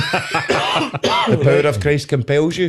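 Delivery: slow exorcist line. Pretend. Exorcist quote joke.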